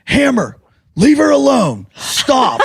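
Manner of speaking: high-pitched mock scolding; comically feeble, high telling-off; imitated rescuer. Storyteller imitates Jason coming to her rescue, high mock scolding. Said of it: "Jason comes in, he goes".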